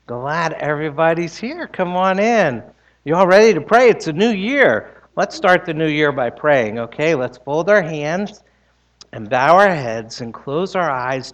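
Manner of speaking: put-on bright, gentle voice for kids; sweet patient sunday school. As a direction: coax the children in kindly. Children gathered for pre-sermon chat.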